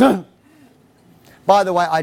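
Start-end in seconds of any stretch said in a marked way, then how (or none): 0.0-0.2 short mock-teenager grunt; wordless, held-back teen grunt. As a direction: grunt instead of answering. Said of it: "it's too polite. It goes".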